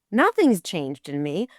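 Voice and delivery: retold indignant self-defense; emphatic, offended denial; firm protest. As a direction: stand your ground, pitch lifting as you go. Stands up to the angry AD.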